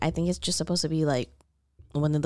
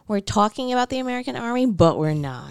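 mock filmmaker line; 4 semitones higher than usual. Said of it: "so they could be like".

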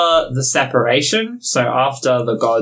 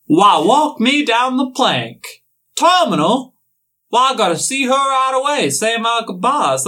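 hammed-up dismay; pirate shock; 9 semitones higher than usual. Pirate father hearing mom is terminal, hammed-up shock.

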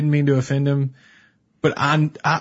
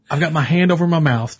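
ordinary delivery

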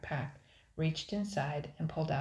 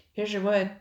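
put-on eager boy; 5 semitones higher, 9 dB louder than usual. A narrator's reading. Boy brings wood.

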